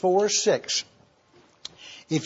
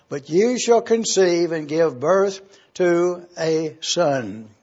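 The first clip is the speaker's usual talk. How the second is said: scripture reading. Acted. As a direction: read the passage out with weight. Reads Judges 13 aloud.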